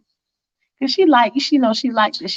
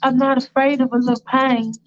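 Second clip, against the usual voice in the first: higher, daring tease; provocative girlfriend; 5 semitones higher than usual. Retold or imitated. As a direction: dare him to go rougher. Faith provoking.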